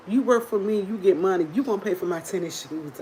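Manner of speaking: lightly imitated demanding brother. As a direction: make each line a mock demand. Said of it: "giving me all these demands".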